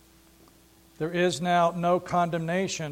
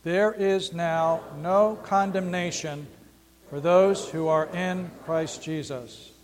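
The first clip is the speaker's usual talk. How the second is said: slow, deliberate unison reading; slow reading with the congregation; 2 semitones lower, slower than usual. Shown as a demonstration. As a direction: lead the room through each word slowly. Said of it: "Would you please read that, read that with me?".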